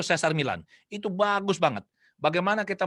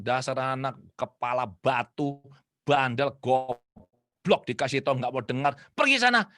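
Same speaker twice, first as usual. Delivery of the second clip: imitated scolding parent; 3 semitones lower, slower than usual. Parent berates crying child as bad example, mock-angry. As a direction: spit out insults one by one, then send away.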